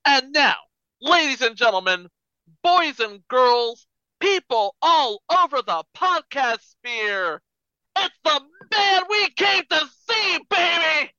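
ringmaster. Pretend. Announcing Santa Claus.

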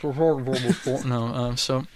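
hushed, conspiratorial half-whisper; whisper yelling. Real, not acted. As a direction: keep it down like the room is bugged. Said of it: "Why are you whispering?".

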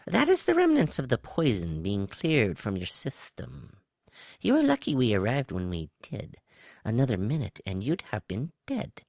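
high, lilting alien voice; high-pitched reptile. A narrator's reading. Reptile explains the poison to Woe, high-pitched. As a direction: swoop high as the reptilian rescuer. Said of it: "A high-pitched voice came from his right".

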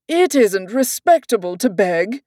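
lightly voiced prim king; a hint of royal disapproval; king correcting Alice, lightly voiced.

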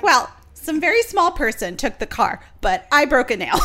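high, loud ditzy quote through laughter; imitating her. Quoting the film's kooky woman, high and laughing. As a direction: play her airy and giggling. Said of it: "And she's like".

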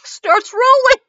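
laughing as the words come out; cracking up. Real, not acted. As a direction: break into laughter mid-reading. Cracking up at the story.

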